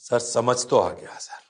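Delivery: low, slow put-on pupil voice; reply slowly like an unsure student; hesitant student. Student admitting to the teacher he understood, hesitantly.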